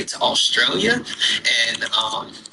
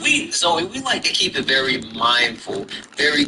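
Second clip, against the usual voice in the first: cutesy high voice; 9 semitones higher than usual. Pretend. High cutesy voice, mindful talk.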